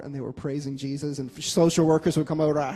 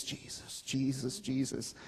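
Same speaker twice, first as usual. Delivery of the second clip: whispered prayer; 2 semitones lower, 11 dB quieter, slower than usual. Retold or imitated. Girl praying as she walks through stores, whispered and soft. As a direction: whisper the name, fading softer each time. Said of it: "walks down stores and just prays".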